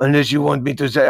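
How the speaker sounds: goofy put-on French accent; badly faked French accent. Shown as a demonstration. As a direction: try a comically bad French accent. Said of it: "see, it starts coming off, it's between LeBeau and".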